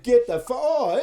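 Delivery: high, loud startled outburst cut short; sudden angry yell. Retold or imitated. Rider overtaking old couple, sudden loud outburst. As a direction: bark it then catch yourself. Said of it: "I went from instant".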